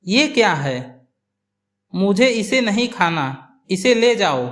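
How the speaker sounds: understated annoyance, lightly voiced mother-in-law; a touch of irritation, rising slightly at the end; angry. Mother-in-law refusing the khichdi from daughter-in-law, mildly angry. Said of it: "सास गुस्से में".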